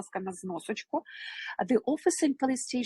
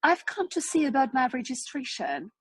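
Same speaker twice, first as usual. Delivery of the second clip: higher read-aloud dialogue voice; dialogue line; 4 semitones higher than usual. Shown as a demonstration. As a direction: read the learner's line clearly. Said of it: "Dialect number three".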